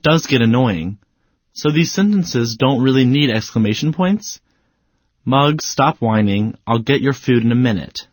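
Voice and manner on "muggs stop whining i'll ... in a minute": not upset. Shown as a demonstration. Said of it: "You don't seem too upset with Muggs".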